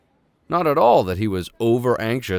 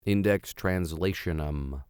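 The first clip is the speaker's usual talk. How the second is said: Index Translationum spelled out slowly and softly; slow careful repeat; 5 semitones lower, 5 dB quieter, slower than usual. Shown as a demonstration. Reader practising the odd name, slow and careful. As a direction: sound out each syllable of Translationum. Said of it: "repeats it to get it right".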